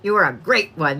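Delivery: low quote with GREAT set apart; spoken in spurts. Retold or imitated. Reader showing how the grandmother talked, in spurts. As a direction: imitate her speech in little spurts. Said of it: "she said it like that".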